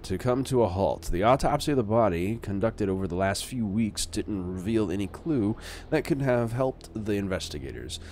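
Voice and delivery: lightly put-on news anchor read; newscaster voice. Player reading a death investigation article, mock newscaster. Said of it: "That is my newscaster voice".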